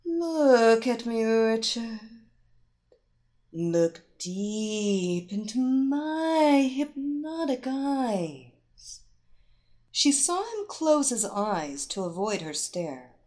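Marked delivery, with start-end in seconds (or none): 0.0-9.0 slow, lilting hypnotic command; melodious hypnotic voice. Acted. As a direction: draw him in slowly and melodically. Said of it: "commanded him in her most melodious, hypnotic voice".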